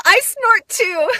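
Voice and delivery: high slow laughing words. Real, not acted. Amused at her own snort: high laughter. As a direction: talk through giggles.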